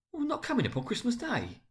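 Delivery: a father's hopes sinking; disappointed father. A narrator's reading. Father dismayed on Christmas Day, disappointed. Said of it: "with a sudden declension in his high spirits".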